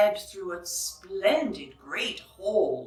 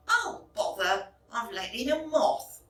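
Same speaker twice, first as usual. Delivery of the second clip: maid crying out. Acted. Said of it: "The maid cried".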